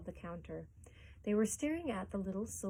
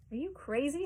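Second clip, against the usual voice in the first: shouted; 6 semitones higher than usual. A narrator's reading. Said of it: "shouted a woman".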